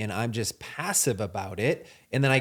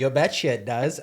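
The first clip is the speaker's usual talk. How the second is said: put-on Minnesota accent. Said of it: "you'll hear Allie's Wisconsin come".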